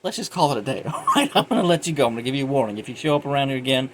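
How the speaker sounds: acted-out cop letting someone off; imitating cop's warning. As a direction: talk the guy down with a hurried warning. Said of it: "He gave him a warning".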